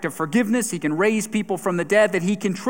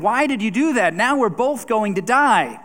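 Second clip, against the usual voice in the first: a raised, higher anguished cry; 4 semitones higher than usual. Acted. Stung frog cries out to the scorpion, raised and anguished. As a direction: cry out as the paralysis sets in. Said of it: "he cries out to the scorpion".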